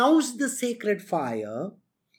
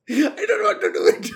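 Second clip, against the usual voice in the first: higher, giggling protest; laughing mock whine; 5 semitones higher than usual. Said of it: "this is how John Oliver does it".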